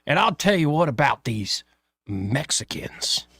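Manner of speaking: layered-on Southern drawl, stretched out slow; hammed-up Southern accent from a comedy skit; thick Southern accent. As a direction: exaggerate a slow Southern accent, drawing out the key words. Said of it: "really layered on thick Southern accent".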